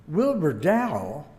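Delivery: realising who Wilbur Dow is; astonished question. Retold or imitated. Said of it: "the man at the desk said".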